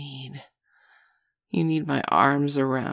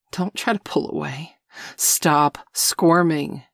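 firm command; 5 dB louder than usual. Acted. Commanding a squirming partner.

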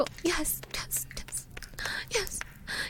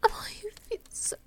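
urgent, breathy half-whisper, breaking into gasps; breathless passion; 3 semitones higher than usual. Acted. Lover to partner in an intimate moment, breathless and pleading. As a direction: pant the words out, pleading and repeating.

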